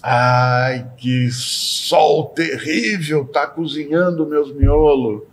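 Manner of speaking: slow, drawn-out whine about the heat; weary, long-drawn grumble; grumbling complaint. Acted. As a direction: moan it out, stretching the vowels. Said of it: "olha pra fora e diz".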